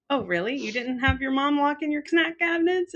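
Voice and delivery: retold innocent disbelief; naive surprise. Client asking therapist about locked snack cabinets, surprised.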